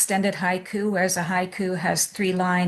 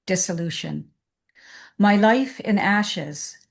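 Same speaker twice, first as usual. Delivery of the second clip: slow, measured poem recital; unhurried reading with space after each line; poetry reading; slower than usual. Acted. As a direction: read the poem line by line, slowly, with pauses between. Reads her poem aloud.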